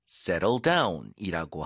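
very slow, drawn-out settle down; slow demo word. Shown as a demonstration. Teacher presenting the key phrase slowly. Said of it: "바로".

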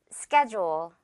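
"schedule" said SKED-jool, with a j sound. Shown as a demonstration. Teacher modelling "schedule" for learners, careful j sound. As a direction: say "schedule" with the d softened to j, slowly. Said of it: "듣고 따라해주세요".

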